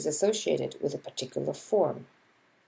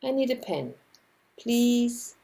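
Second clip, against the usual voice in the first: "I need a pen, please" higher and gentle; "I need a pen, please" pitched up and polite; polite request; 5 semitones higher than usual. Shown as a demonstration. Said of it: "much more polite if I said".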